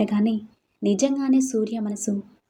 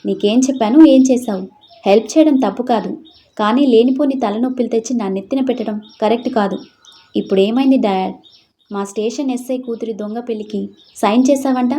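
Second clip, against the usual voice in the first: raised, louder scolding voice; angry scolding; 4 dB louder than usual. Acted. Father scolds daughter over the wedding, loud angry scolding. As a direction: tear into her for causing trouble. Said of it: "ఎందుకు అలా అరుస్తున్నారు?".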